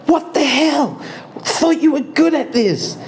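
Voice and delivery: high voice with a laugh, teasing; high mocking Ymir. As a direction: squeal it out in mock disbelief. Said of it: "And Ymir goes".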